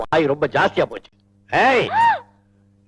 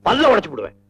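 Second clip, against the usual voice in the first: scolding father's threat; a touch of fury; angry threat; 3 semitones higher than usual. Acted. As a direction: threaten the girls in a temper. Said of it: "இது நிஜமான கோபமா".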